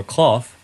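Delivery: "cloth" spoken with the short o and f ending of cough; cloth rhymes with cough. Shown as a demonstration. Lecturer offering a third reading of the name, "cloth" like cough. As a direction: say "cloth" as kloff, rhyming with cough. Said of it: "rhyming with cough".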